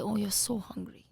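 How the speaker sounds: soft understanding parent voice; gentle sympathy. Shown as a demonstration. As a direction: kind but firm, softly. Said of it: "you sit down and say".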